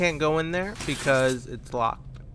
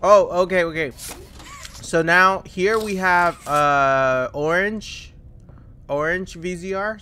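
excited; 5 semitones higher, 7 dB louder than usual. Real, not acted. Excited at new item.

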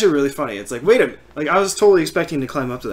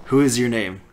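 low, quiet deadpan questions; dry prickly grumpy voice; 7 semitones lower, 4 dB quieter, faster than usual. Retold or imitated. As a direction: ask it dry and grumpy, like Cactus. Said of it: "I'm talking like Cactus".

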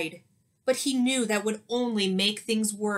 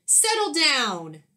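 louder, slow stern order; stern command; 5 semitones higher, 5 dB louder, slower than usual. Acted. Teacher ordering the class to calm down, stern. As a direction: plant your feet and command them. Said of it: "Miss Kirby stomped".

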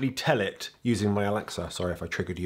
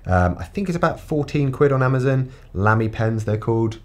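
sassy; 5 dB louder than usual. Pretend. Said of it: "where I got to be a bit of a sassy bitch".

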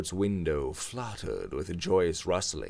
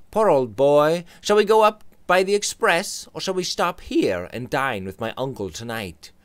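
higher, louder cheerful friend; Robert's voice; 8 semitones higher, 7 dB louder than usual. Acted. Robert cheers up George, higher and friendly. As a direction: sympathise brightly.

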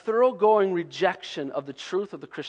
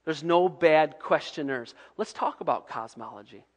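gentle reassurance; 6 semitones lower, 5 dB quieter than usual. Pretend. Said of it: "I would have said".

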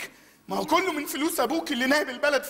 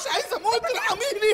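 mock pleading; 5 semitones higher than usual. Begs for his life.

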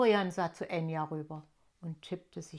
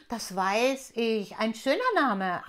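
langsamer, lauter Wassertropfen; Wassertropfen Aquarius; 3 semitones higher, 6 dB louder than usual. Acted. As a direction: ein freundlicher Tropfen, ruhig gedehnt. Wassertropfen antwortet. (Stimme des Tropfens, langsam)

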